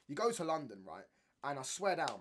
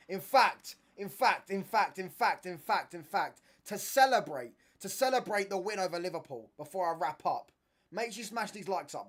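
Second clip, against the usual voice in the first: loud, high, excited announcer yell; the streamer hypes viewers before the giveaway, yelling excitedly; hyped-up shouting; 5 semitones higher, 11 dB louder than usual. Real, not acted. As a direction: pump up the crowd, shout it out. Hyping up the livestream chat.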